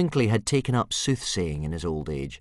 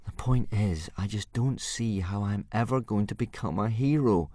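gloomily; 4 semitones higher than usual. Acted. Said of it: "said Hiccup gloomily".

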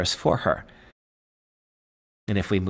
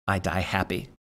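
content sigh; 5 semitones lower, 6 dB quieter than usual. Acted. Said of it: "with a sigh of content".

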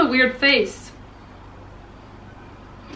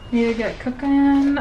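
playful repeat; 2 semitones higher than usual. Pretend. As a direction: lift the pitch on a playful echo. Playfully repeats her own line.

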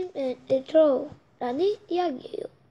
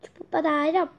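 magic spell; faster than usual. Pretend. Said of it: "주문을 외우자".

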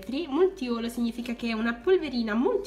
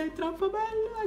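delighted squeal; 11 semitones higher than usual. Real, not acted. Gushing over glitter.

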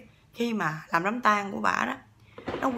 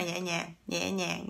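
gentle, dainty; 4 semitones lower, 5 dB quieter, much slower than usual. Retold or imitated. Contrasts dainty eating with noisy gobbling.

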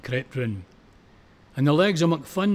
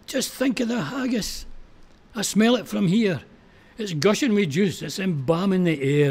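high, raised cries straight into his ear; shouted encouragement; 5 semitones higher than usual. Acted. McPhee shouting into fallen McPhun's ear, high and raised. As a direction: yell to keep a fallen man going. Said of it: "shouted down in his ear".

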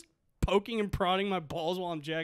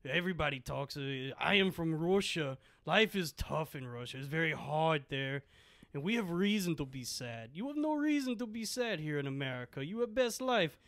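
put-on Russian accent lecture; 3 semitones lower, 6 dB quieter than usual. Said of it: "a Sopranos monologue".

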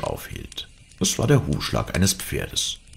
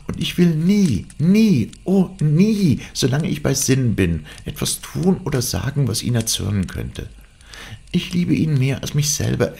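put-on high, fervent girlish voice; high-pitched, earnest avowal; impassioned young Cathy; 9 semitones higher than usual. A narrator's reading. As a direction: pour out devotion in a high, urgent voice. Voices Cathy pleading devotion to father.

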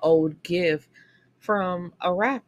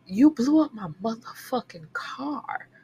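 whispered mock outrage; 5 semitones higher than usual. Ranting at the character.

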